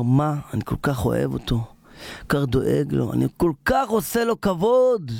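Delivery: acted hurt, building in indignation; hurt king. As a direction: let the grievance build. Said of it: "המלך, מרוב שהוא נפגע".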